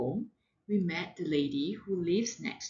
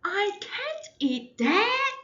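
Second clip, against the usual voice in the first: high, loud wailing protest; crying child; 12 semitones higher, 5 dB louder, slower than usual. Acted. Child wailing at breakfast, refusing the egg. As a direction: wail it like a child refusing food. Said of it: "I cried and cried and said".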